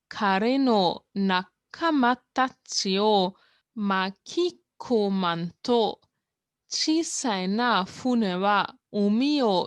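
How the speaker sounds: slow, deliberate narrator reading; story narration. Acted. Teacher reading the manga narrator's lines, slow and deliberate. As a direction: read it like an epic opening line.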